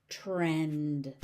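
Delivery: "Trend" held long on the vowel; slow, low model of "Trend"; drawn out. Shown as a demonstration. Teacher stretches word for learners.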